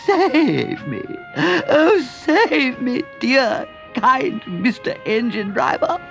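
high, slow desperate begging Toad; pleading cry. A narrator's reading.

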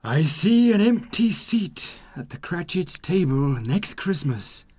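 high, solemn ghost voice with mild sorrow; sad spirit. Acted. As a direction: deliver the prophecy gently. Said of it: "replies the spirit sadly".

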